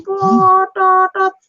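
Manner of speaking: drawn-out high honk of a ship's horn, slow; ship horn imitation. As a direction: mimic the ship's trumpet blaring. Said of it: "trompet kapal sudah berbunyi".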